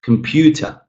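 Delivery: comPUter, PEW fully articulated; crisp strong second syllable in "Computer"; clear stressed syllable. Shown as a demonstration. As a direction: enunciate the middle of "Computer". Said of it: "I say it more clearly as well".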